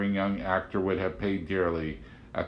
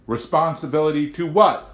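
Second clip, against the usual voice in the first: high, louder curious question; Amanda asking; 8 semitones higher, 9 dB louder than usual. A narrator's reading. Amanda questioning the agent, high and curious. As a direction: ask it with honest puzzlement.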